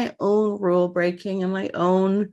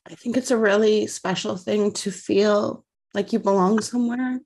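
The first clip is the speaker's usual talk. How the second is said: tearful, voice catching; holding back tears while speaking; crying; 2 semitones higher than usual. Real, not acted. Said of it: "So I'm sorry I'm so emotional".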